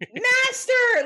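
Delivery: high, loud shriek of Master; shrieking devil voice. Retold or imitated. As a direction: screech Master like a cartoon devil. Repeating devil impression.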